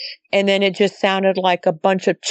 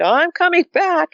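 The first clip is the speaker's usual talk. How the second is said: much higher-pitched quote of the son; retold call-out; 10 semitones higher than usual. Mom retelling her spooked son's words, high-pitched mock call-out. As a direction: imitate him calling out, voice jumping high.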